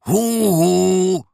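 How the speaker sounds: hoch und laut hinaufgerufen; eifriger Ruf. Acted. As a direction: ruf hinauf zu den Vögeln auf dem Dach. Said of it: "winkt ihnen eifrig zu und ruft". (laut rufender Bär)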